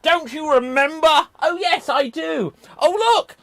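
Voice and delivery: loud, high-pitched play-acting; hammed-up excitement. Racing through an improvised Peter Pan scene, hammed-up excitement.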